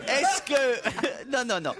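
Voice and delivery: high giggle breaking the question; can't stop laughing; giggling. Real, not acted. Giggling fit mid question.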